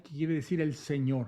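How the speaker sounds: ordinary talk, nothing marked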